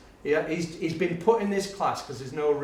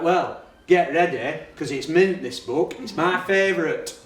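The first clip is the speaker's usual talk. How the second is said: enthusing teacher; 4 semitones higher, 6 dB louder than usual. Retold or imitated. Teacher hyping a favourite book to the class, enthusing. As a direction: sell it with relish.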